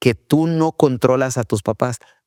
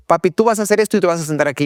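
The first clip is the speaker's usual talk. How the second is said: bossy little daughter; 6 semitones higher, much faster than usual. Retold or imitated. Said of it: "Eva Luna de repente me dice".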